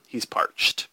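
breathy dramatic whisper, no voice. Pretend. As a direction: whisper it like a secret. Repeats the joke in whisper.

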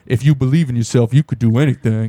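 hint of a sappy encouraging mother; mom voice. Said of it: "the mom's like".

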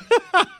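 high squeal of real laughter; burst of laughter. Real, not acted. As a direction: crack up at the memory, high and bright. Cracking up at own story.

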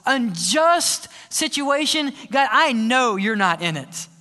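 a hint of an indignant believer; mock complaint. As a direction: plead a frustrated complaint upward. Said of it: "we look at our world and say".

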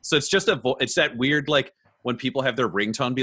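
ordinary talk, nothing marked

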